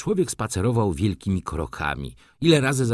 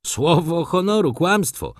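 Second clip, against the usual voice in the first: higher and pushed, honoru stressed; angry exclamation; 8 semitones higher, 4 dB louder than usual. A narrator's reading. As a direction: flare up red with anger on Słowo honoru. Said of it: "zawołał młody człowiek, rumieniąc się z gniewu".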